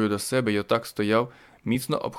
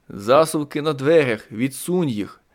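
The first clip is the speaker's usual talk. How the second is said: slow, louder urgent order; urgent shout; 4 semitones higher, 4 dB louder, slower than usual. Acted. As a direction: bark it out over the noise. Shouting instructions to Diana.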